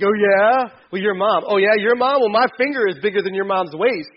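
mock schoolkid trash talk; lunch table comeback. Kid at the lunch table trading your-mom insults, mock taunting. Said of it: "You're like".

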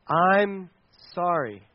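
slow, spaced-out, deliberate apology; sincere apology. Shown as a demonstration. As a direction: say it simply, pausing between the words and dropping at the end. Models a true apology.

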